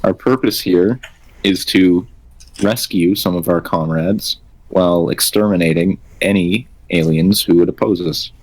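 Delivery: even, mechanical female android voice; female robot voice. Acted. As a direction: speak like a calm robot woman. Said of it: "be using my female robot voice".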